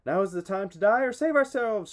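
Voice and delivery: loud, high desperate cry; shouting. A narrator's reading. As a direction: rouse the men to a last stand. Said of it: "shouted Aias".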